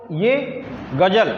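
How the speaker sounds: slow, careful ग़ज़ल with the ज़ as a buzzing z sound; ghazal with nukta. Shown as a demonstration. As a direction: stretch out गजल, voicing the nukta ज़ like English z. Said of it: "इन दोनों में क्या होता है".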